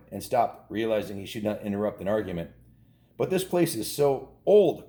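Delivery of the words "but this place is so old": slow, higher, louder complaint; mother protesting. A narrator's reading. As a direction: drag it out like a fed-up mother. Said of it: "protested the boy's mother".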